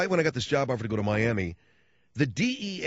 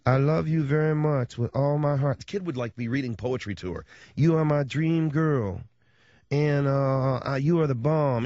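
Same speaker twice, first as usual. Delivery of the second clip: slow, swooning earnest declaration; lightly voiced teen caller reading poetry to the DJ; lovesick kid caller; 2 semitones higher than usual. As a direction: pour your heart out slowly.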